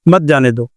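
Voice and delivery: مت starts a fresh phrase, joined to جانے دو; new phrase after breath. Shown as a demonstration. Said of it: "سانس توڑیا".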